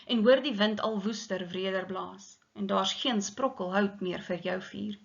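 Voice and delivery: measured Afrikaans poem recital; poem reading. Acted. Teacher reading the Afrikaans poem to the class, recital. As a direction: read the stanza like a poem.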